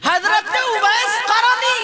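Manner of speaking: high, loud, slow sermon cry; fervent preaching climax; preaching at full force. Acted. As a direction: lift the crowd with it.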